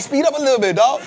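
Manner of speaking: real laughter while quoting himself; laughing. Retold or imitated. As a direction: giggle out the line. Laughing, retelling what he says.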